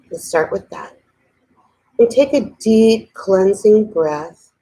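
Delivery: unhurried voice leading a breathing exercise; guided meditation. Real, not acted. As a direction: ease listeners into relaxing, with long pauses. Leads a meditation.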